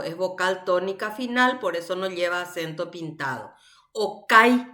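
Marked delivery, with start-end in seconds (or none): 3.9-4.7 Okai with a louder "kai"; stress on A. Shown as a demonstration. Teacher showing the tonic vowel, stressed A in Okai. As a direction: punch the A in Okai. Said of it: "la vocal tónica viene a ser la A".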